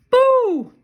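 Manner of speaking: loud spooky boo. Pretend. Parent reading to child, a loud playful ghost boo. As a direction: jump out with a big boo.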